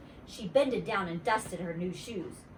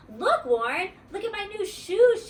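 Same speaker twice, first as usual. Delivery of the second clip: loud, high call across the playground; yelling; 12 semitones higher, 6 dB louder than usual. A narrator's reading. Grace yelling to Warren across the playground about her shoes. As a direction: shout to get his attention. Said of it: "she yelled".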